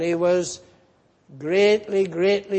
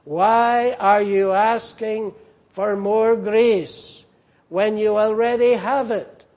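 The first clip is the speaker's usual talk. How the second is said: God gently scolding a grieving minister; divine rebuke; 2 semitones higher, 3 dB louder than usual. Retold or imitated. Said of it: "God spoke to him and rebuked him".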